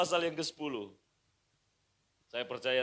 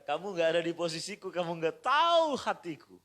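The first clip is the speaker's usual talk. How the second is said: complaining; 4 semitones higher, 7 dB louder than usual. Retold or imitated. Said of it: "berkata begini".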